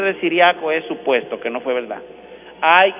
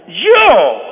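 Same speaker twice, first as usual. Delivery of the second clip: surprised; 4 semitones higher, 8 dB louder than usual. Retold or imitated. Surprised penitent asks back.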